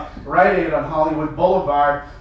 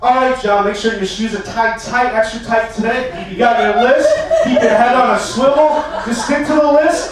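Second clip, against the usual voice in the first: hyped-up self pep talk; 4 semitones higher than usual. Retold or imitated. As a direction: psych yourself up for the war zone. Pep talk to himself outside store.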